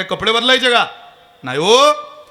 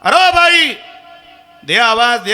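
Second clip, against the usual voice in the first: calling out to the woman; 8 semitones higher than usual. Retold or imitated. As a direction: yell at her to move aside as the brakes fail. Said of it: "त्यानं त्या बाईला आवाज दिला".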